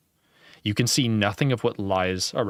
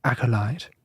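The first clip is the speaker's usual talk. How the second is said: "Acolyte" parroted in a robotic read; like Google; 3 semitones higher than usual. Retold or imitated. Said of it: "I have to say it like Google".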